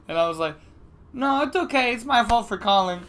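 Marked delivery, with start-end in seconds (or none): 1.1-3.0 meek apologetic. Retold or imitated. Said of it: "That was bitch me".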